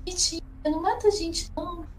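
high, sweet pleading. Acted. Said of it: "Eu tô só assim".

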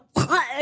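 mock spitting splutter; quick spit-out gasp for air; imitated sputter. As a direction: act out coming up spluttering from the water. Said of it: "like, spitting and sp".

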